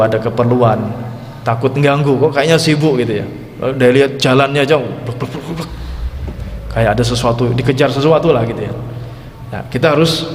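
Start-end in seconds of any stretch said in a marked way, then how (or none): 4.8-5.7 soft, quick pattering mouth sound; imitated hurried footsteps. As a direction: softly imitate someone rushing past.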